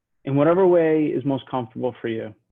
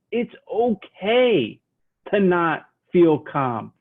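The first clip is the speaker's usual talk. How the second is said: reassuring; 4 semitones higher, much slower than usual. Acted. Reassures listeners about stress.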